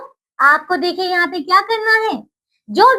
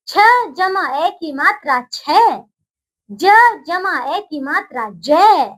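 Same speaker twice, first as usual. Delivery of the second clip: slow dictation. Shown as a demonstration. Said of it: "आइए, बोलिए मेरे साथ".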